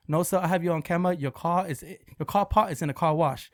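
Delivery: lightly put-on Asian accent; patient insistence in mock Asian accent. Fake car wash owner citing the camera, mock Asian accent. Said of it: "There's no Asian guy that owns".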